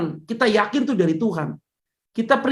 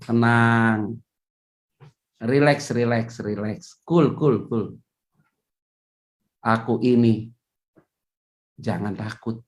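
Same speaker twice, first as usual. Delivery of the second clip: calm reassurance; 9 semitones lower, slower than usual. Retold or imitated. Jesus soothing frightened disciples on the lake, low and calm. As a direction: soothe frightened friends gently.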